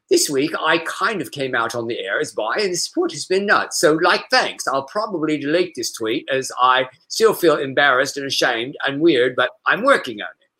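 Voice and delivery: a mild put-on British accent reading the tweet; lightly voiced British reading of the tweet; British accent attempt. Shown as a demonstration. Host reading a gay radio host's tweet in a light British accent. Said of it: "I should go".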